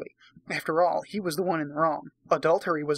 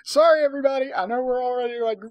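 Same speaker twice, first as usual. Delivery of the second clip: much higher and louder, giddy exasperation; exasperated outburst; 7 semitones higher, 3 dB louder than usual. Real, not acted. Reader apologizing to viewers, giddily exasperated. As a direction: cry out for another drink in disbelief. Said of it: "exasperated reader needs a drink".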